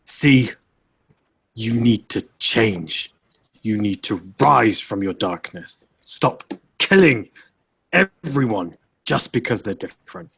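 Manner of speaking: forceful mock shout without full volume; held-back shout. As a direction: suggest shouting, punching key words, voice held back. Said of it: "he would shout".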